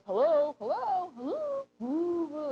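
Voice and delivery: slow, high, loud ghostly hello-woo; spooky voice calling. Retold or imitated. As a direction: call into the cellar like a hammed-up ghost. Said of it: "there's a voice that he goes".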